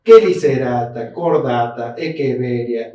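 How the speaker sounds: "Quelicerata, cordata, echeveria" with K sounds; slow list, every CH a hard K. Shown as a demonstration. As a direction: say "echeveria" as "ekeveria". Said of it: "La C H es una K".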